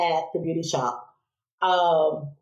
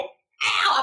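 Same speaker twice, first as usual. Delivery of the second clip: mock yelp; 5 semitones higher than usual. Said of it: "I'd be, like, screaming".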